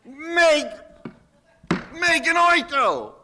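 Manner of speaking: meganoito, pronounced with care; Greek word. Shown as a demonstration. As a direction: sound out meganoito as the Greek term. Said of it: "That's Greek for".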